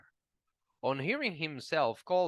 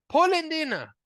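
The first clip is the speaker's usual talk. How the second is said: taunting shout; 13 semitones higher, 8 dB louder than usual. A narrator's reading.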